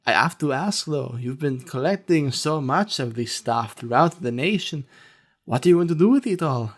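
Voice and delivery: lightly voiced lunch lady. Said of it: "And she goes".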